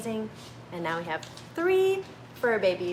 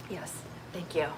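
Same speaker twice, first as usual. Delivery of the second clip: teary; 4 semitones lower, 10 dB quieter than usual. Real, not acted. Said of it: "I did not think that I was gonna be crying today".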